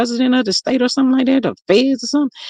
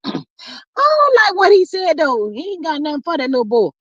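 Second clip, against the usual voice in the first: disapproving; 8 semitones higher than usual. Real, not acted. Telling viewers what she thinks of him, disapproving. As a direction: make your disapproval plain. Scolding a celebrity on live stream.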